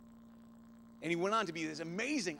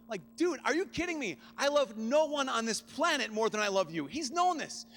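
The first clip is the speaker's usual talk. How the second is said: louder and higher, fervent; emphatic declaration; 6 semitones higher, 4 dB louder than usual. Real, not acted. Preacher telling brother love, loud and fervent. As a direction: proclaim it with full force.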